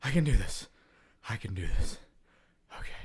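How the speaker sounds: imitated kid losing his nerve; fading self pep talk. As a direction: let the mock bravado drain away to a small murmur. Kid's resolve fading away.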